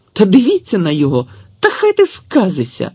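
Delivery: appealing to others in annoyance; exasperated. A narrator's reading. Tetiana exasperated with the boy.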